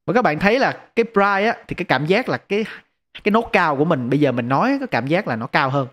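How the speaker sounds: brighter processed voice. Shown as a demonstration. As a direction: voice through a bright EQ setting. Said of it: "bây giờ chúng ta sẽ qua bright".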